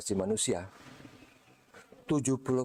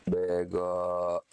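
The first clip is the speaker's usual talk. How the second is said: soft mock insult; 4 semitones lower than usual. Shown as a demonstration. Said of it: "dengan nada gini".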